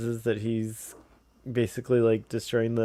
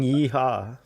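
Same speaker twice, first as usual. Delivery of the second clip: Texan yeehaw. Retold or imitated. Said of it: "While saying".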